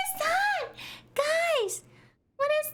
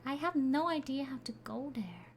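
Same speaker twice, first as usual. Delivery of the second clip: whisper; 8 semitones lower, 7 dB quieter than usual. Real, not acted. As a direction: hush it like you're creeping past a monster. Sneaking past a spider.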